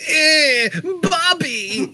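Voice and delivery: very high squeaky mock call; mimicking Phantasmo. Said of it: "his version of".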